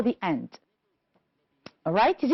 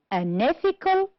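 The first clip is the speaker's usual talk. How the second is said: "and ethical" with ETH stressed and higher; stress on second syllable; 7 semitones higher than usual. Shown as a demonstration. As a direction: model "and ethical", lifting the pitch from ETH onward. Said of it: "On the second syllable".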